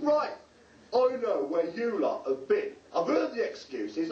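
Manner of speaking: knowing scold. Retold or imitated. Leader confronting latecomers.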